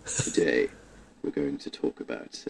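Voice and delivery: soothing low radio host greeting; late night radio voice. Retold or imitated. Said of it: "late night shipping forecast radio voice".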